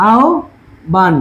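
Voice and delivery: আহ্বান slowly in two parts, "ao... bhan"; teaching pronunciation. Shown as a demonstration. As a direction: draw out আহ্বান, "ao", pause, "bhan". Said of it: "এই বটা হয়ে যাবে কি ভ দিয়ে".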